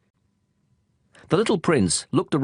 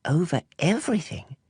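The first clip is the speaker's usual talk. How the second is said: surprised question; 6 semitones higher than usual. Acted. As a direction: echo it back in disbelief. Astonished prince echoes.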